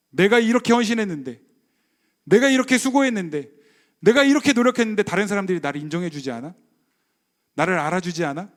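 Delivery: lightly acted aggrieved believer, stressing 이렇게; mock self-pity, building to indignation; resentful complaint. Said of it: "그러면 화가 나는 거예요". (서운함이 섞인 가벼운 불평)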